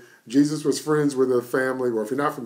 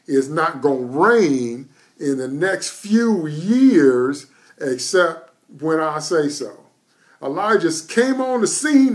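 preaching at full force; 2 semitones higher, 4 dB louder than usual. Acted. Preacher rousing the congregation about Elijah's word, full-force preaching. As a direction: hammer each phrase home to the congregation.

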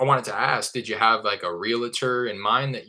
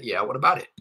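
curt owner reply; 4 semitones higher, 3 dB louder than usual. Retold or imitated. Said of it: "the most common response that I get".

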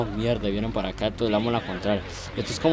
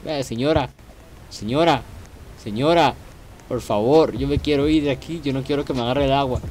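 panicked yelling; 5 dB louder than usual. Real, not acted. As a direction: yell at the players to get out of the way. Fleeing the tsunami in the game. (gritos de pánico pidiendo que se muevan)

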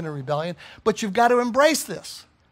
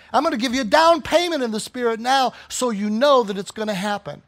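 raised pitch, driving sermon delivery; fervent preaching; 3 semitones higher, 3 dB louder than usual. Real, not acted. Preacher voicing God's promises to the church, fervent. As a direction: preach it insistently, building point on point.

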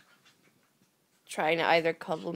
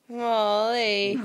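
calling her name, rising; 9 dB louder than usual. Real, not acted. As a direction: call the name, lifting at the end. Calling the dog again.

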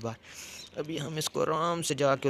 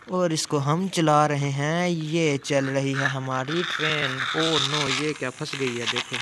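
excited, loud toy play; 2 semitones higher, 7 dB louder, slower than usual. Real, not acted. Toy train set running.

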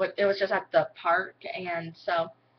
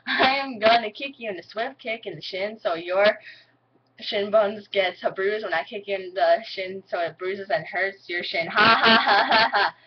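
country accent; 5 dB louder than usual. Shown as a demonstration. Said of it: "I'm gonna say this four".

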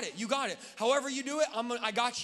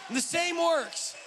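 emphatic preaching; 6 semitones higher, much slower than usual. Real, not acted. Preacher to church, slow emphatic call. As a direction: drive the phrase home. Preacher repeating key phrase.

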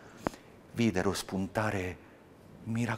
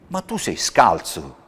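louder, slower cry of dismay; shocked, louder cry; 8 dB louder than usual. Acted. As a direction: call out in shock at the bare feet. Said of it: "gridò".

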